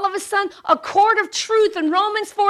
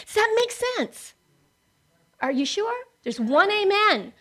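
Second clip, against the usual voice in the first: usual speaking voice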